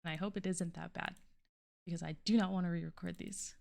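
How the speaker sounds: tinny, muffled recording; tin can sound. Real, not acted. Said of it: "I kinda sound like I'm in a tin can".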